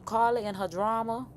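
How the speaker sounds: lifted New Orleans-style impression; Tokyo. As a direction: put on a dramatic New Orleans voice. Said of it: "I'm trying to sound like Tokyo".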